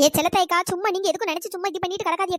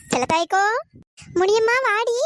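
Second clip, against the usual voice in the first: calling out; 2 semitones higher, 6 dB louder than usual. Acted. Calling out to neighbours.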